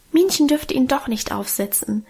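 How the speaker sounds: ordinary delivery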